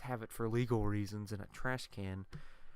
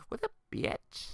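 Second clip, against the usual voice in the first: mock dude; 4 dB louder, slower than usual. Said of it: "you imagine some dude saying it".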